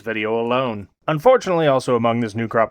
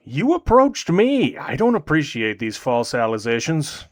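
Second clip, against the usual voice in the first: indignant protest. Real, not acted. Indignant reply to the girl.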